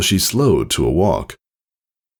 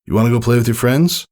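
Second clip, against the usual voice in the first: smiling father; 5 semitones higher, faster than usual. Acted. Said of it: "A smile on his face".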